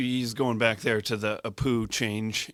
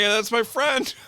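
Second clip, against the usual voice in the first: protective shout; 12 semitones higher, 6 dB louder, slower than usual. Retold or imitated. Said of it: "I'm like".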